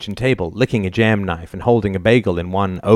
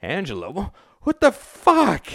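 bewildered outburst; 11 semitones higher, slower than usual. A narrator's reading. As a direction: build from stunned to outraged. Husband stammers, bewildered.

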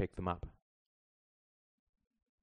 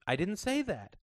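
high, quick denial; defensive; 11 semitones higher, 3 dB louder than usual. A narrator's reading. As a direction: snap back defensively. Mother caught out.

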